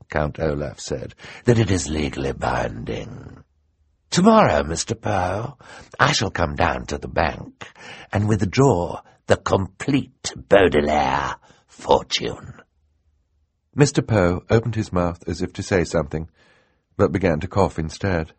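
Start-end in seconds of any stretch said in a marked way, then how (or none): 1.4-12.6 lightly voiced villain stating his claim; gloating villain. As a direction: savour the victory, drawing out the end.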